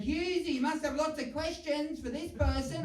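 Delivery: hammed-up game show host prompting. Host putting Hughes on the spot, mock presenter voice. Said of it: "the host, Osher Ginsberg, goes".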